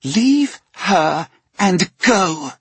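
high, loud, slow snarl. Acted. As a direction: snarl it as a threat. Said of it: "she snarled".

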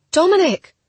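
high, loud scream of a name. A narrator's reading. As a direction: scream it out in alarm. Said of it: "I screamed again".

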